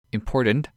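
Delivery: "important" with its T left out; dropped T. Shown as a demonstration. Podcast host quoting an expert on Australian speech, dropped T. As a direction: say "important" lazily, skipping the T. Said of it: "can include missing T's".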